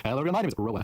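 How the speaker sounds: "Roa" set apart after a small stop; pause before name. Shown as a demonstration. Interviewer mocking her fix, pausing before "Roa". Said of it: "stop for that one".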